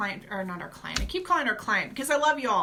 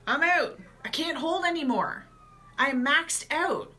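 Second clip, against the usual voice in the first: higher, exhausted voice of a colon, slowing to the end; colon tapping out; 4 semitones higher than usual. Pretend. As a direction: play the colon giving up. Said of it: "it's like tapping out".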